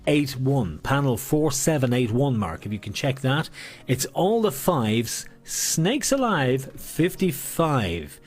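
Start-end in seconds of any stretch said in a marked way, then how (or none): 3.9-8.2 slow bingo call. Acted. Slow drawn-out final call.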